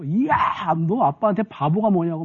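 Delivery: sharp yell at the son, high on 이야; retold angry yell. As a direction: scold the boy for calling him a fool. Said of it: "막 소리를 지르고". (아들에게 버럭 소리치는 흉내)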